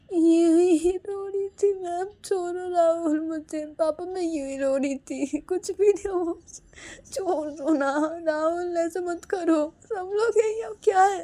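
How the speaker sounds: very high, drawn-out whine; whiny pleading. Acted. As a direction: plead to be let go, voice right up high. Pleading before father and family. (बहुत ऊँची, रिरियाती आवाज़ में मिन्नत)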